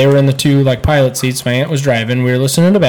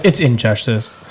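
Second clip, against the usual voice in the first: lightly voiced prim correction; mocking correction; 4 semitones lower, 4 dB quieter than usual. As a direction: imitate a know-it-all correcting you. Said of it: "and you're like".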